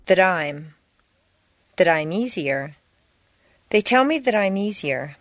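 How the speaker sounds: THAT I'M EASIER joined as one word; linked words. Shown as a demonstration. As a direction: link the final T of THAT onto I'M, the M onto EASIER. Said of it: "It's the sound that's important".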